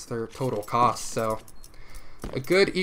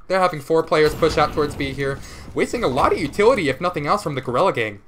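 excited; 2 semitones higher, 5 dB louder than usual. Real, not acted. Caster gets hyped over push.

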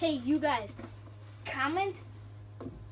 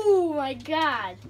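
laughing disbelief; 9 dB louder, much slower than usual. Real, not acted. Losing the game, laughing.

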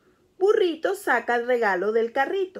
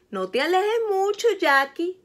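worried; 8 semitones higher, 4 dB louder than usual. Acted. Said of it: "dice Mamá Jack preocupada".

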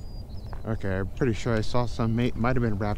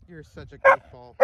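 high teasing voice; 4 dB louder than usual. Real, not acted. Teasing the dog.

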